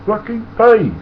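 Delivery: high, slow mock-Indian conductor shout; angry demand. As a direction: bark it at a drunk. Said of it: "He'd say".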